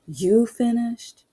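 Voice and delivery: sneering doubt; drawn-out incredulous cop. Retold or imitated. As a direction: stretch it out in mock disbelief. Cop questioning her degree.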